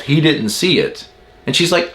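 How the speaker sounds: ordinary talk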